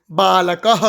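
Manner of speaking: बालकः drawn out with a final breathy "ha"; slow बालकः, closing on a short "ha"; visarga pronounced. Shown as a demonstration. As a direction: sound the visarga as "ha" ending बालकः. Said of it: "इसका उच्चारण होता है ह".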